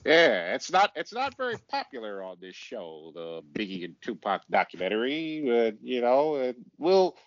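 mock impression of a co-host; teasing send-up of a friend's way of talking; imitating Alfred. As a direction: lightly parody your co-host rambling on. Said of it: "You sound like this, Alfred, every time you talk".

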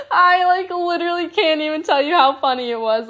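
high, laughing through the story; can barely get it out for laughing; giggling while retelling mom bursting in. Real, not acted. Laughing retelling mom's reaction.

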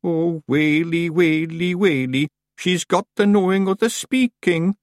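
high, drawn-out Scots wail; little clansman lamenting in dread; sobbing. A narrator's reading. A Feegle realises the witch speaks their tongue, sobbing. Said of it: "someone sobbed".

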